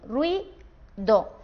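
«ruido» partido en rui-do, con pausa en medio; separado por sílabas. Shown as a demonstration. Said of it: "lo haríamos así". («ruido» silabeado, rui... do)

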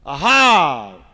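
high, excited little bird; singsong bird voice. Acted. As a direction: trill it out with delight. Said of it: "she sang".

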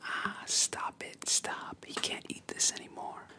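drawn-out, slow "stop it" in a whisper; whispered crying out. Acted. Little girl begs him to stop, whispered outcry. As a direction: cry out in protest without leaving the whisper. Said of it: "yelling, just crying out".

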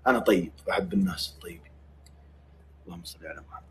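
whisper. Real, not acted. Whispered aside.

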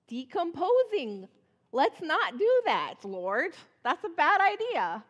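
a hammed-up grossed-out plea to the Lord; disgusted objection. Martha objecting to opening tomb.

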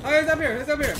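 high urgent shout; excited shout. Real, not acted. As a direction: yell the warning high. Sudden enemy sighting.

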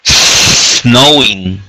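Snowing said with a clear initial s; teacher's corrected model. Shown as a demonstration. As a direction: stress the s in Snowing. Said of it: "No es snowing".

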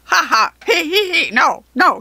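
loud, high helpless giggling; tickled goblin laughter. A narrator's reading. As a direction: laugh and protest as if being tickled. Goblin helpless while being tickled.

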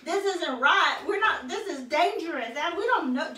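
put-on indignant little girl, laughing through it; hammed-up huffy child, giggling; bossy little princess. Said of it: "She says".

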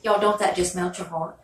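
choked up with real feeling; teary. Real, not acted. Moved to tears after hearing Joe's accent. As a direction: voice catching as if about to cry.

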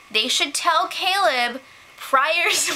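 breaking into laughter mid-line; can't hold back the giggles; slow, laugh-filled delivery. Real, not acted. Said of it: "why are you laughing?".

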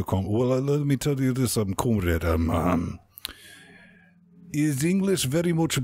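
a hint of a Russian accent; mock Russian accent. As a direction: play a Soviet comrade with broken English. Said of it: "I was actually trying to do Russian accent earlier".

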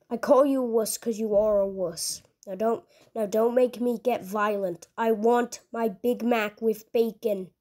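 a hint of an impatient brute ordering food; understated low growl of a demanding customer; lightly voiced Doomslayer. Gruff customer voice held.

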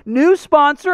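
talking while chewing cereal; mouth full. Real, not acted. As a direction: speak through a mouthful of food. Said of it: "getting me caught eating".

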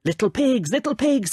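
high storybook wolf call. A narrator's reading. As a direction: call out to those inside. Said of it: "he shouted".

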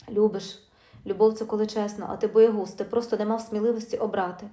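furious wife mocking his excuse; angry retort. Wife accuses husband of cowardice.

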